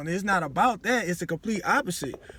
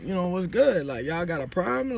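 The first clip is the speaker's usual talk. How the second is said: confrontational. Retold or imitated. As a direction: square up and challenge them. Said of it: "I'd be ready to go off".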